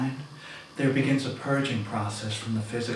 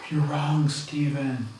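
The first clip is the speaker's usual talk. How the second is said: firm raised; 5 semitones higher, 4 dB louder, slower than usual. Retold or imitated. Telling him he's wrong.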